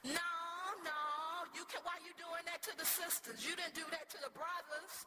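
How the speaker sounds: high, indignant call-out from the crowd; yelled out. Retold or imitated. Lightsey calling out to the young man for hushing the sisters, indignant. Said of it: "yelled out".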